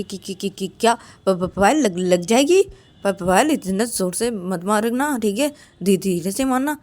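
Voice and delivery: lightly acted frightened stammering; nervous stammer. Ananya begs Payal to hit gently, nervous stammer. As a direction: stumble over the first syllables, mildly panicked. Scared character pleads before being hit.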